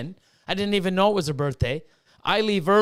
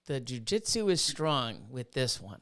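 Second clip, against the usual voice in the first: slow, hushed, mock-ominous movie line; Star Wars villain quote; 4 semitones lower, 8 dB quieter, slower than usual. Host parodies a Star Wars line about jujitsu, slow and mock-ominous. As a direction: intone it slowly and softly. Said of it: "it's the Star Wars and jujitsu".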